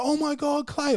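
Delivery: high mock greeting from an old acquaintance; excited girl greeting. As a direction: imitate her surprised hello way up high. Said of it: "she's like".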